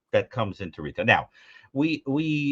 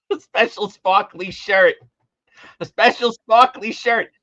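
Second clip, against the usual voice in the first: high, slow, drawn-out mimicry; obsessed customer; 10 semitones higher, 5 dB louder, slower than usual. Customer obsessed with a lost shirt, mimicked high voice. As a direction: draw out each word in a raised, fussy voice.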